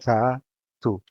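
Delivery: Ra with an open "ah", then tu with "oo"; loud Ra, pause, tu with a closed vowel; open A, shut O. Shown as a demonstration. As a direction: split Ra, tu into two clear syllables. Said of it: "The A is open and the O is shut".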